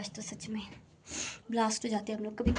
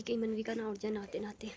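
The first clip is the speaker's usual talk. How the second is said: whisper; 5 dB quieter than usual. Real, not acted. Fears waking the sleeping baby.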